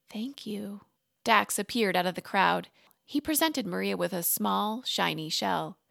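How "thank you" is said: soft whispered thanks; quiet thank you. A narrator's reading. Speechless Maria thanking the mer mother in a whisper. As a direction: barely breathe the words out. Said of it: "a quiet".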